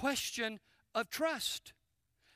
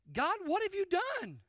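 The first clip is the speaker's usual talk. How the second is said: Elijah crying out; 7 semitones higher than usual. Acted. Elijah's anguished question to God.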